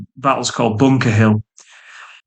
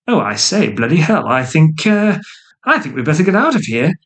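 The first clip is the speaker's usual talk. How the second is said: climbing higher, a panicky rush at the end; mock flustered British officer; 4 semitones higher than usual. Narrator mocking the British fleeing Boston, hammed-up flustered voice. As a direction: ham up a rattled redcoat deciding to flee. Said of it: "And British are like".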